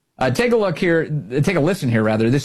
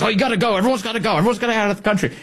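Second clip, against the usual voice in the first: higher, frantic mock Mullin voice; 8 semitones higher, much faster than usual. Host mocking Mullin's posts, high and frantic. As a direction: parody him ranting to go. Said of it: "He goes".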